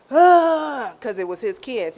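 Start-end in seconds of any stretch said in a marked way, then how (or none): 0.1-0.9 imitated wail. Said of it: "This is what I heard".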